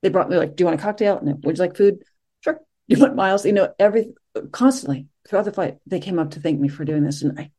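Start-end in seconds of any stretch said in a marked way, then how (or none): 0.5-3.5 lightly voiced attentive stewardess; eager hostess offers. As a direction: play the fussing stewardess.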